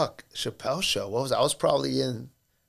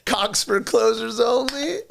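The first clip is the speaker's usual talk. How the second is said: slowed, louder mock sales boss; a hammed-up Glengarry boss, higher and loud; mock Baldwin sales boss; 9 semitones higher, 4 dB louder, slower than usual. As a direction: drag it out like a bullying sales manager. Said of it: "Glenn Gary, Glenn Ross".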